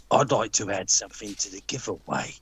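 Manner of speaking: gruff southern-accent impression; Creative Precious Metals. Landlord offering to add to the giveaway, gruff southern accent. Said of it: "beautiful southern gruff accent".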